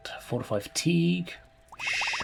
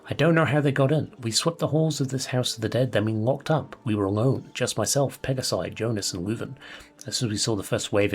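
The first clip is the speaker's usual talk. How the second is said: lightly voiced dying warrior writing to his brother; hint of a character voice, earnest farewell letter; doomed mercenary's letter; 3 semitones lower than usual. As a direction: read it as a solemn last letter in a put-on accent. Reads dead man's letter in character.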